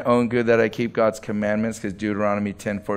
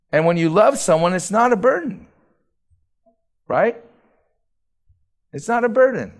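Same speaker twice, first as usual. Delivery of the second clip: high, ringing sermon emphasis; preaching emphasis; 8 semitones higher than usual. Acted. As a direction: lift the voice to drive the point home. Preaching climax, high pitch.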